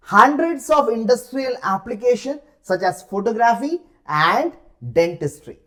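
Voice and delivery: reading the exam passage aloud slowly and clearly. Shown as a demonstration. Teacher reading the passage to students, slow and deliberate. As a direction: read each phrase slowly for the class.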